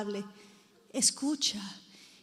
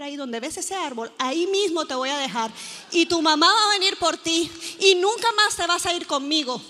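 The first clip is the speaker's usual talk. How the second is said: firm warning; 4 dB louder than usual. Retold or imitated.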